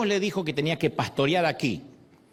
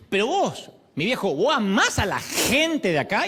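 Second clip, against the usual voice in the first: "gente" leaned on, pressing the question; stress on gente; 6 semitones higher, 3 dB louder than usual. Retold or imitated. Preacher retells pressing his friend on "gente", emphatic. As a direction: press the word "gente" home. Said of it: "Y acentué la palabra gente".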